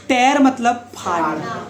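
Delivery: टेयर said as tare, open e; tear said tare. Shown as a demonstration. Teacher showing the class rip is टेयर. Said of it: "इसको टीयर नहीं बोलते".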